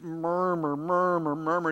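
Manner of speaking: imitated murmuring. Preacher imitates the people's constant roar, murmuring. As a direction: murmur run together in a rolling repeat. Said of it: "That word means murmur".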